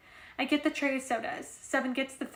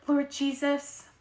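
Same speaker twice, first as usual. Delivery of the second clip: dismayed; 3 semitones higher, 6 dB louder, much slower than usual. Acted. Felicia reacting to grief.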